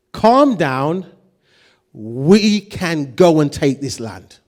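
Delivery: confident leader's command, steady and firm; clear command. Retold or imitated. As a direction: give the order, slowly and certain. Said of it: "Clear command, not a suggestion".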